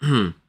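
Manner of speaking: quick throat clearing. Real, not acted. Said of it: "I'm trying to clear my throat".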